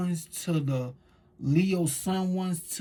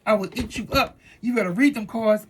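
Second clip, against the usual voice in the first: playful growl; 6 semitones higher, 5 dB louder than usual. Retold or imitated. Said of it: "I'm just like".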